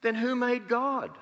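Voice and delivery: put-on high, slow childlike voice of a ten-year-old; little boy asking. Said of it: "he was about ten years old, and he said".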